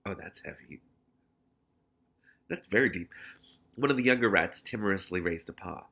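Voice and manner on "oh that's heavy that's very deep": whispering. Real, not acted. Aside reacting to story.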